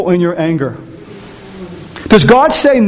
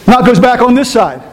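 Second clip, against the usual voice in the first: usual speaking voice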